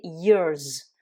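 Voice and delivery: "years" ending in a buzzing z; English years. Shown as a demonstration. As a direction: finish "years" on a voiced z. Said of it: "c'est le son ze".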